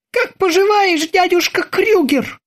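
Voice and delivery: very high robotic voice; robotic terminator. Acted. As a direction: speak like a metallic machine.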